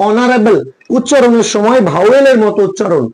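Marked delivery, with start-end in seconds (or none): 0.1-0.6 "অনারেবল" with a silent h; vowel-first pronunciation. Shown as a demonstration. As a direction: start "অনারেবল" straight on the vowel, no h. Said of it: "তাহলে উচ্চারণটা দেখো".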